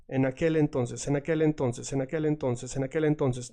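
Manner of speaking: en aquel entonces repeated as one smooth chain; drilled linked phrase. Shown as a demonstration. Teacher drilling the phrase for students. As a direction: drill it, each word flowing into the next. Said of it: "That will make you sound better".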